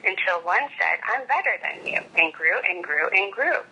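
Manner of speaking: put-on gentle read-aloud of a children's book; storybook reading. A narrator's reading.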